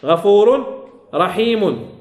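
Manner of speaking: غفور رحيم said slowly with its tanween clearly sounded; slow tajweed example; slow recited example. Shown as a demonstration. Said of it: "فنقول مثلًا".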